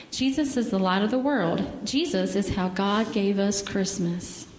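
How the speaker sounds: gentle storybook reading; children's story time in church. Acted. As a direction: read the bear story to the kids.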